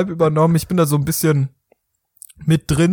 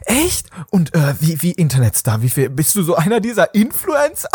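Lisa, curious. Pretend.

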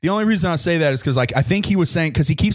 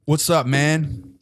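wrestling promo voice; 2 semitones higher than usual. Pretend. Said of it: told to stop with a rapper's wrestling promo voice.

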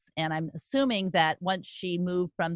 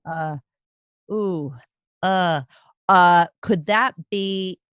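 pleading for help when totally stuck; stumped quiz guesser begging for clues; flustered; 7 dB louder than usual. Real, not acted. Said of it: "I can't even think".

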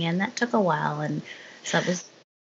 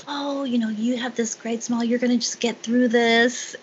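high, bright upbeat reassurance from the tech; chirpy, over-encouraging pep talk; cheerful nurse; 8 semitones higher, 3 dB louder than usual. Retold or imitated. Tech cheering up a worried patient, sunny and high. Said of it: "with her sad eyes and cheerful kind of comments".

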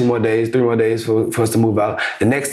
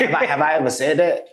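laughing disbelief; 4 semitones higher than usual. Real, not acted. Laughing disbelief about the phrase.

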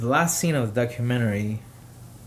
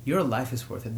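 gentle repeat. Retold or imitated. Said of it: "one worker tells a, a caller".

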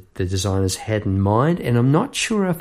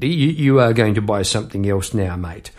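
bossy mock statement; mock pushy demand; 2 semitones lower than usual. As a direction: imitate the shopkeeper telling you. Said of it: "It sounds more like a statement".

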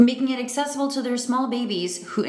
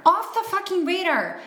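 fucking punched high; stress on fucking; 11 semitones higher than usual. Real, not acted. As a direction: hit the word fucking hard. Echoing with emphasis.

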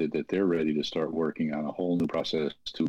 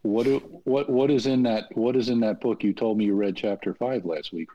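raised pitch, insistent quizzing; pressing questioning; 5 semitones higher than usual. Retold or imitated. Interventionist holding mom to her reading, pressing and insistent. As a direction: press for an answer, stumbling into emphasis.

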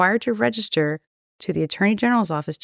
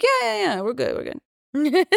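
nervous reassurance; 6 semitones higher than usual. Retold or imitated.

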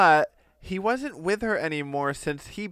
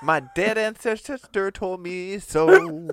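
mock Carl; 5 semitones higher, 4 dB louder, slower than usual. Continuing Carl voice.

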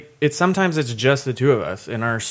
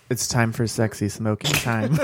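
sultry; 4 semitones lower, slower than usual. Retold or imitated. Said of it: "She goes".

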